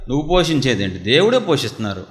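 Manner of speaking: a hint of a proud servant talking back; proud and arrogant. Preacher mimics the servant's proud reply, mildly arrogant. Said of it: "గర్వంతో, అహంకారంతో".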